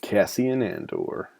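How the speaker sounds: put-on drawn-out Wisconsin accent on the name. Fan naming a movie character on screen, Wisconsin accent. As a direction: say it slowly, like someone from Wisconsin. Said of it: "say it with a Wisconsin accent".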